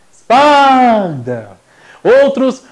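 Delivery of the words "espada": drawn-out call, as if hailing a person. Shown as a demonstration. Teacher shows calling the word to find stress, calling out. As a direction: call espada like someone's name, long and loud. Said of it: "faz de conta que a palavra é uma pessoa e chama".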